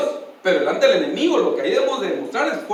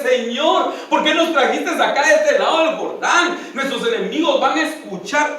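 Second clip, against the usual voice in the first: raised, high pleading cry to God; pleading Josué; 6 semitones higher than usual. Retold or imitated. Josué lamenting before God in a raised pleading voice.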